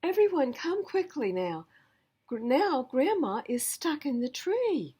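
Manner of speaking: Grandma stuck up the tree calling the family; calling everyone. Acted. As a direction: shout down from the tree. Grandma calls for help.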